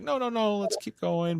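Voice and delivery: a hint of a forced-cheerful Troy; mock Troy insisting. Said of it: "And she's like".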